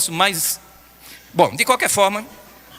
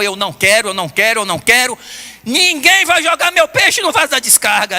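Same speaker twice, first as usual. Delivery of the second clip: put-on insistent child's protest, rising on quero; a granddaughter refusing to have her fish flushed, insistent; granddaughter's protest; 3 semitones higher, 3 dB louder than usual. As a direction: play the upset child refusing.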